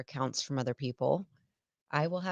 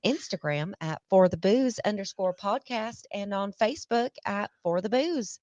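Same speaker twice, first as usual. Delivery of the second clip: put-on southern accent; 4 semitones higher than usual. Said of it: "slip in my, uh, southern accent here".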